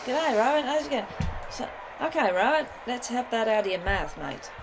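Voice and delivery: put-on hoog, opgewekt Australisch accent; Australian accent. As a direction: gooi er een vrolijk Australisch accent in. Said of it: "That didn't sound that bad that time".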